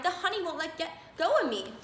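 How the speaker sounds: he's stuck and scared, beg for help; frightened cry. A narrator's reading. Stuck in honey, Sammy pleads with his mother, frightened. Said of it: "he cried".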